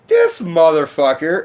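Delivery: imitating an affronted heckler; retold indignation. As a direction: draw it out in mock disbelief and anger. Retold heckler glaring at the yeller.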